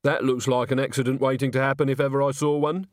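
ordinary delivery, nothing marked

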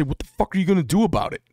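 rapid indignant challenge; angry confrontation. Retold or imitated. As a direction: confront the friend hotly. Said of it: "I say".

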